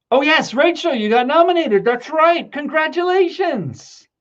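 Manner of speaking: high, tearful voice cracking with emotion; choked-up congratulations. Real, not acted. To Rachel on her nomination, high and teary. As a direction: congratulate her while fighting back real tears. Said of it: "now I'm crying again".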